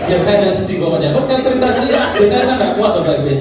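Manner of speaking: chuckling through the words; half-laughing, choked up; laughing while talking. Real, not acted. Speaker moved telling own story.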